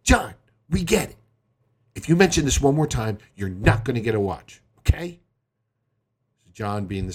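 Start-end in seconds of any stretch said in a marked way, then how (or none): 0.0-5.2 mildly exasperated parental warning; fed-up dad. Acted. Dad warning his pestering son, fed up. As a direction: lay down the law, lightly acted.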